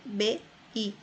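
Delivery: "B, I" as two isolated sounds, BE then BI; final E as I. Shown as a demonstration. Teacher shows how E loses its sound, isolating each. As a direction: contrast a full E with the weakened I. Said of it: "E ali até perde um pouco".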